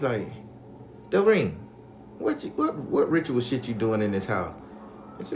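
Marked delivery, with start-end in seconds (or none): 1.1-4.5 sharp high call of the name, then questioning; confrontational grandma. Retold or imitated. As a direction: imitate grandma demanding an explanation.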